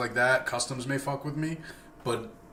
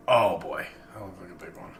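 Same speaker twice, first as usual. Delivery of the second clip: spooked and shaky; 5 semitones lower than usual. Real, not acted. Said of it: "I don't know why I sound scared".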